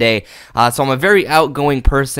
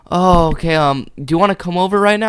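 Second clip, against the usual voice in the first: mock woman's voice; 5 semitones higher than usual. Quoting the woman on phone.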